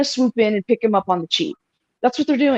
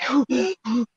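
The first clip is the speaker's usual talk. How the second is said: mock panting; 4 semitones higher, 5 dB quieter, slower than usual. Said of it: "sit against a wall and be like".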